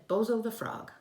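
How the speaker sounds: put-on boy proudly showing off his pet; proud announcement. Child proudly naming frog.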